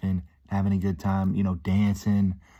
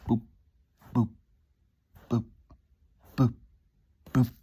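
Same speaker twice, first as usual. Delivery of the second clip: short, evenly spaced boops; little boop for each squat pulse; imitated squat pulses; 3 semitones higher than usual. Imitating each slow squat movement.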